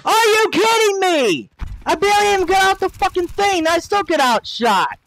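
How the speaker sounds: rising rant. Real, not acted. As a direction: spit it out angrily and fast. Raging at an online shooter.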